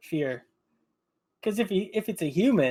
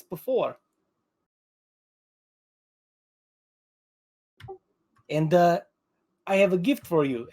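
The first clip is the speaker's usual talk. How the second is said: soothing Rogar voice; 3 semitones higher than usual. Acted. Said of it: "he'll look towards the ogre and say".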